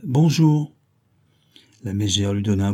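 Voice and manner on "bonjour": put-on old hag voice.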